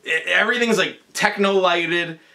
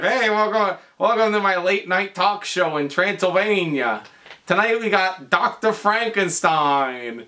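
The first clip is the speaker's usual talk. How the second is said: talk show host; 3 semitones higher than usual. Retold or imitated. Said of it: "and he's like".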